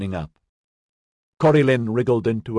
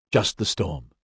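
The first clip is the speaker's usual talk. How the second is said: quietly reassuring, settling at the end; soft reassurance; 3 semitones lower than usual. A narrator's reading. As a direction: play the danger down gently. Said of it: "Inigo's soft voice reassured her".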